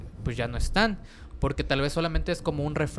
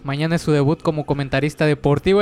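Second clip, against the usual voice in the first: loud announcement read; 7 dB louder than usual. Real, not acted. Reading producer's message aloud.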